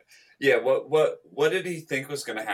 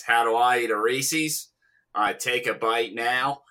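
put-on Australian accent. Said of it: "I find Australian accents very difficult".

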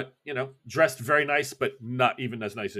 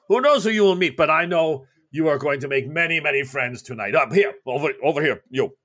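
put-on booming, lightly accented Russian host; a jovial party host greeting guests; Breslovich voice; 2 semitones higher, 4 dB louder than usual. GM as Breslovich welcoming the party, booming host. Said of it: "Breslovich is like".

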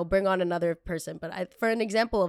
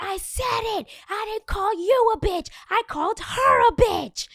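much higher, building louder angry retort; heated retort; 14 semitones higher, 7 dB louder than usual. Retold or imitated. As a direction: snap back indignant and rising. Retold heated argument.

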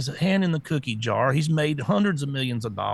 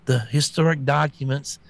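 mocking the press secretary. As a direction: parody a flustered spokeswoman fumbling with nonsense words. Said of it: "She's like".

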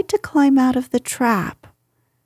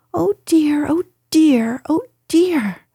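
high, small worried piglet voice; a timid little pig fretting; 6 semitones higher than usual. Acted. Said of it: "said Piglet to himself".

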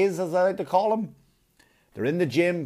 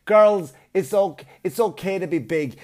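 mock cheer; 3 semitones higher, 4 dB louder, slower than usual. Mocking body positivity.

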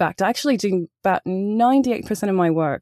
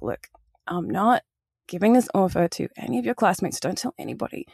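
soft, lowered aside, imitating the director; confidencial; 5 dB quieter than usual. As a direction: confide it quietly, as if pulling someone aside. Acts out director pulling her aside.

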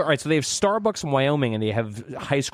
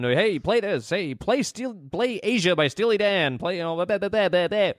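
clear, higher voice-assistant commands; commanding phone; 7 semitones higher than usual. Retold or imitated. To his phone at work, a raised commanding voice. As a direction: spell it out so the phone understands. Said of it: "telling my phone".

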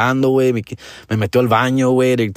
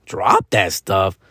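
low, slow disbelieving question; mock scoffing kid; incredulous echo; 5 semitones lower, much slower than usual. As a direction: repeat it back in disbelief. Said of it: "And I'm like".

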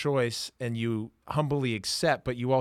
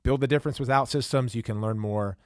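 polished podcast sponsor read, key words punched; 2 semitones lower than usual. Acted. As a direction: read the sponsor copy to listeners, emphatic at the start. Host reads sponsor ad.

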